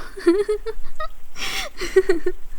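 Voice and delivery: high, amused cackle; high cackling laugh. Acted. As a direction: cackle at the silly question. Amused by the question "real.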